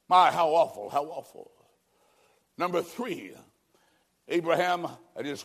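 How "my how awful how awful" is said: loud. Acted.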